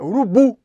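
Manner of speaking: URUBU with the punch on the last syllable, BU; stress on final syllable. Shown as a demonstration. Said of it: "Então é o bu". ("urubu" com força na última sílaba, BU)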